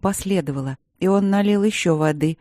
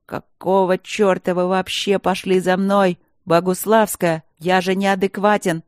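frustrated outburst; 4 dB louder than usual. Acted. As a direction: rage at yourself and her. Professor shouts in frustration.

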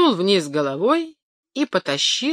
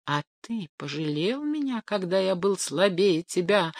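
much softer, hushed rustling voice; rustling wind; 5 dB quieter than usual. Acted. The wind answers the rooster in a soft rustle. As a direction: let the wind sigh the words softly. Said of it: "зашумел ветер".

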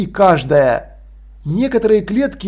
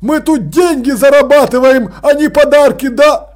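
высоко и громко; негодующе отчитывает; возмущённый Крохобор; 6 semitones higher, 4 dB louder than usual. Acted. (Крохобор возмущённо отчитывает Санту, высоко и громко)

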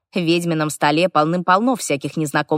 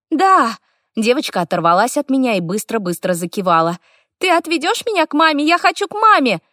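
put-on pleading little girl; 7 semitones higher than usual. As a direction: beg like a small girl.

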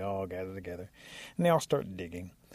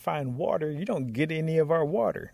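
higher, louder, mildly angry warning; mad animals; 6 semitones higher, 6 dB louder than usual. Acted. Animals warning lazy Rabbit, cross. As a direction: warn the shirker crossly.

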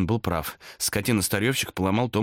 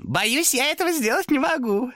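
demon reply. Acted. Demon refuses to leave Thomas alone. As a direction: sigh it out with fake pity.

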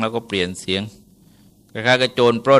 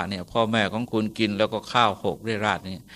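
softer, sly telling-on voice; sly quiet complaint; 7 dB quieter than usual. Retold or imitated. Wife quietly turns her husband against his parents, sly and hushed. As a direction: hush it like a scheming wife.

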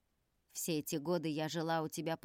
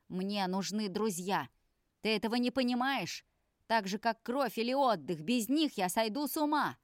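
angry plea; 4 semitones higher, 5 dB louder than usual. Acted. Son pleading angrily with father.

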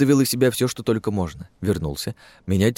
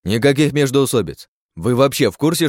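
scolding; 5 semitones higher, 5 dB louder than usual. Acted. Chief scolds the squad.

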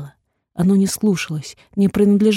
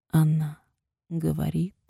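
usual speaking voice

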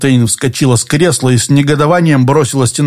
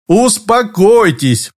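soothing smile; 7 semitones higher, slower than usual. A narrator's reading. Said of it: "улыбнулся Мейсон".

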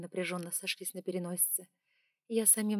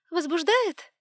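taunting; 10 semitones higher, 9 dB louder, slower than usual. Acted. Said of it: "heroine taunts the dragon".

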